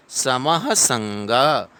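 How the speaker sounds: समः with a quick ha; sama-ha, the ha fast, then संग; quick visarga. Shown as a demonstration. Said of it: "थोड़ा fast पढ़ेंगे".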